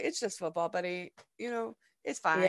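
put-on calm a disappointed boy softly; soft reassuring tone to her son; reassuring mum. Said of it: "And I was like".

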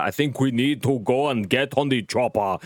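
lightly voiced Austrian action hero; a hint of Arnie's accent; Arnold Schwarzenegger impression. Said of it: "That's not what Arnold Schwarzenegger sounds like".

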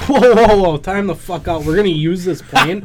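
alarmed protest. Retold or imitated. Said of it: "I'm like".

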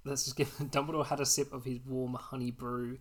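talking around a sweet; words round a sweet in the mouth; mouth full. Real, not acted. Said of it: "Sorry, I'm eating a sweet".

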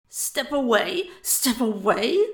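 slow, loud, incredulous echo; indignant, rising at each end; sputtering disbelief. A narrator's reading. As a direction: throw the order back as an outraged question. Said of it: "sputtered Buck".

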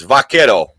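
"Vaquero" with a Spanish tapped r; Spanish pronunciation. Shown as a demonstration. Host showing off a Spanish word, "Vaquero" with tapped r. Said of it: "I know, like, eight Spanish words".

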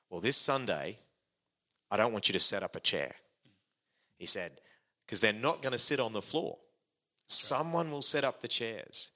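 hint of an American pastor's accent. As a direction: lightly do Graham's American voice. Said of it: "now I'm gonna put on his voice".

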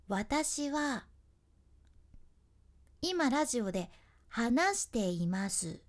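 「私は」の後に間を置いて; shifting rhythm with a long pause after 私は; uneven rhythm. Shown as a demonstration. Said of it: "並んでる間隔が違ったり". (リズムを変えて)

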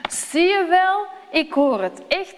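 bursting to prove he heard it; excited boy. A narrator's reading. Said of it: "zegt Samuel".

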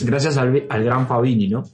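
talking with food in mouth; words round a bite of food; mouth full. Real, not acted. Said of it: "No hables más con la boca llena".

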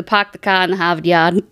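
"park the car in the Harvard Yard" with dropped r sounds; the classic Boston accent line, no r's. Shown as a demonstration. Co-host shows the only Boston line she knows, in a Boston accent. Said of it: "all I can do is".

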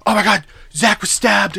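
high-pitched imitation of panic; retold freak-out. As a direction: mildly act out a frantic phone call. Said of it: "freaking out".

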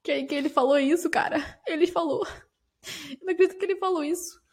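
a light impression of an upset housemate; imitating Kay. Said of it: "ela falando".

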